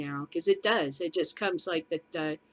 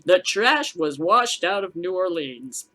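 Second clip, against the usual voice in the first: mock blatant racist; 6 dB louder, slower than usual. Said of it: "it would have been".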